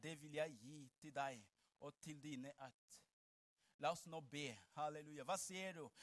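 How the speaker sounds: very soft, low, measured delivery; hushed preaching. Acted. Preacher telling what God said to Abraham, hushed low preaching. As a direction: draw the room in with long pauses. Hushed retelling of God's words.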